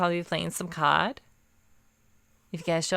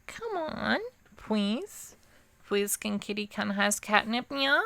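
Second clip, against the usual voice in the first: put-on soft baby-talk kitten plea; cat girl voice; 3 semitones higher, 4 dB quieter, slower than usual. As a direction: whimper for it like a kitten. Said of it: "some cat girl A S M R".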